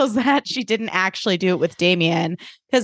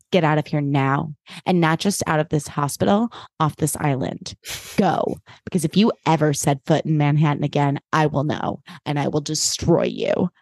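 low, controlled banishment; cold threat; 4 semitones lower than usual. Retold or imitated. Blair banishing Jenny from Manhattan, low cold threat. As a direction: lay down the threat low and measured.

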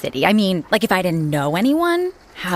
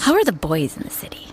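whispering; 2 semitones lower, faster than usual. Acted. Whispered gossip question.

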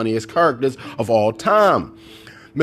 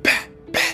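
pistol shots; 4 dB quieter than usual. Retold or imitated. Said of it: "kept shooting that little pistol like".

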